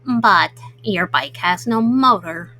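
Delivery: an eager turtle asking around. Acted.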